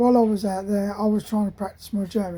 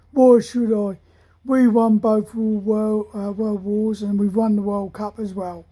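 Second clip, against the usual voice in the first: cocky retort. Retold or imitated. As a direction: brag about the wars like a cocky lad. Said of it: "he was quite a cocky lad".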